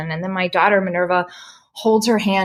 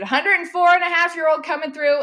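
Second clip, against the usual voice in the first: calling out; 8 semitones higher than usual. Real, not acted. Calling out to the crowd.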